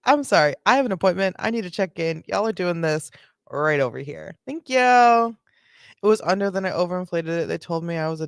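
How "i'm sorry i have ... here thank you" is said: lightly voiced polite woman; polite mock woman. Streamer voicing the woman as overly polite, light imitation. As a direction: play her as sweet and polite, lightly. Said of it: "This woman said".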